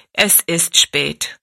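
slow, falling "Es ist spät" with a sigh of fatigue; tired flat "Es ist spät"; weary statement. Acted. Maid answers wearily.

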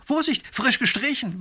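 high, loud sudden warning; warning call. Acted. Painter warning the lady off the wet railing. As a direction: blurt the warning quickly. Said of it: "warnt er sie".

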